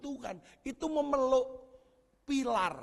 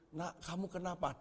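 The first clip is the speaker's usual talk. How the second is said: mother asking; 4 semitones lower, 12 dB quieter than usual. Retold or imitated. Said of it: "Ditanyain sama mamanya".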